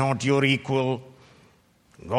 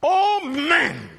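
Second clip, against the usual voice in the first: booming voice of God. Acted. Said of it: "Verse twenty, the first part".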